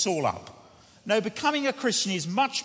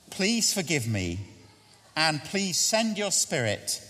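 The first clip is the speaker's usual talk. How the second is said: slow, earnest prayer read through once. Shown as a demonstration. Preacher previewing the prayer for the congregation, slow and earnest. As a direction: lead the prayer slowly, phrase by phrase. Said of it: "I'm gonna say it slowly once".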